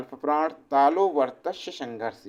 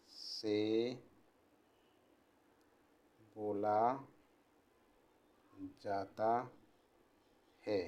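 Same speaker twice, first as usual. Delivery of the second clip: quiet, word-by-word dictation with long pauses; slow dictation; 6 semitones lower, 7 dB quieter than usual. Acted. Teacher dictating notes to students, slow and quiet. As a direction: dictate each word slowly so the class can write.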